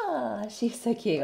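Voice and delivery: drawn-out cooing over something cute; silly adoring coo. Real, not acted. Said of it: "I don't know why I'm talking in this voice".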